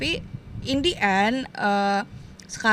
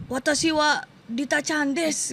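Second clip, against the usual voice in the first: put-on Western accent Japanese; 4 semitones higher, slower than usual. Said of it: "tapi dengan logat, eh, bule".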